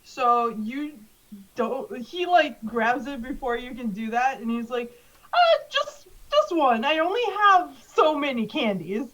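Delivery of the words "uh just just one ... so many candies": flustered, starting high; nervous. Acted. Candy man stops kids grabbing his candy, nervous. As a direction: stammer it out in an anxious hurry to stop them. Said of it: "so nervous".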